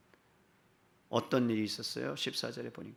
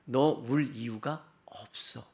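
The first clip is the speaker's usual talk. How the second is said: gentle rebuke; much slower than usual. Acted. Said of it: "예수님의 부드러운 책망의 말씀이에요". (낮고 부드럽게 타이르듯)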